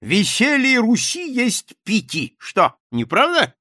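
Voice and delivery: high, loud, slow tipsy swagger; sudden drunken voice. A narrator's reading. Captain turns tipsy and dashing before the writers. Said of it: "внезапно пьяным голосом".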